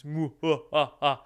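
scheming villain cackling over plans; Mister Burns. Retold or imitated. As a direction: gloat like an evil billionaire. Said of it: "sitting there like Mister Burns".

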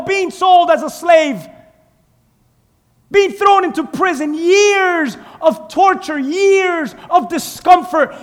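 preaching. Acted. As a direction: preach each hardship with weight. Preaching the story of Joseph.

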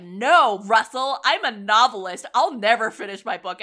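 loud, emphatic mock retort; imitating a novelist. Character answering his friend about the book, mock emphatic. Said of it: "And he's like".

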